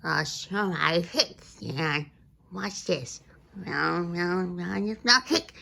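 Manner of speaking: words broken by hiccups. Acted. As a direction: hiccup mid-sentence. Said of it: "you can't sing with the hiccups".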